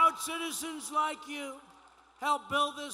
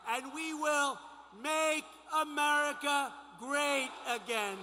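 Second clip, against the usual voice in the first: building, shouted rally lines; rally speech. Acted. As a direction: rouse the crowd with each slogan.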